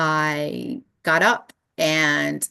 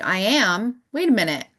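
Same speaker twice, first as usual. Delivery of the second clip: sudden realisation; 4 semitones higher than usual. Retold or imitated. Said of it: "I was like".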